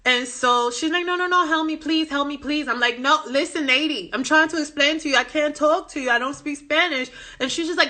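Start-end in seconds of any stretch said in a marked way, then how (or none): 1.1-2.7 imitated pleading. Customer begging again, retold. 3.0-7.1 retold exasperated insistence. Clerk insisting to the customer.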